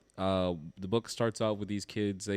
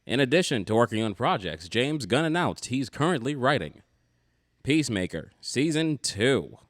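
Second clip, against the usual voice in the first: newscaster voice; 4 dB louder than usual. Pretend. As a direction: read it like an old-time radio announcer. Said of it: "my newscaster voice on for this".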